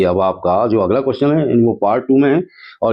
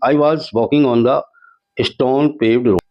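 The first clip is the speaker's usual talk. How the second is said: slow dictation read; 3 semitones higher, much slower than usual. Shown as a demonstration. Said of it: "reading the answer sentence".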